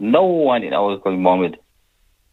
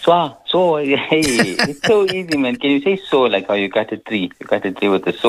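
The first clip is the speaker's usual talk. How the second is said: mother's mock answer; 5 semitones higher than usual. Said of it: "She would say".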